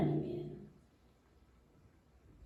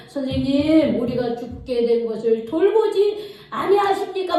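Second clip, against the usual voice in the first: complaining. Acted. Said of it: "막 불평하는 거예요".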